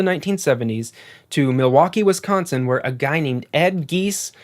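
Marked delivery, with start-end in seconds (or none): 3.9-4.3 "Geese" said to rhyme with fleece; uncertain pronunciation. Shown as a demonstration. Narrator guessing at a surname, uncertain pronunciation of "Geese". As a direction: say "Geese" with a long ee, one syllable. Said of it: "not exactly sure how you pronounce it".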